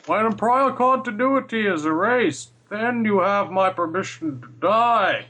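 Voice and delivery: slow villain pronouncement; mock Bane. Podcaster spoofing Bane to friends, slow villain menace.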